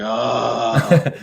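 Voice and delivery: wife's long weary "ahh"; exasperated groan. Retold or imitated. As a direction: groan like a fed-up spouse. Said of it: "my wife's just like".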